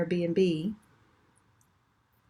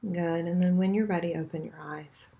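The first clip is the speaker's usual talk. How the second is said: guided meditation. Acted. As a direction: ease them gently into the breath. Leads a chakra meditation.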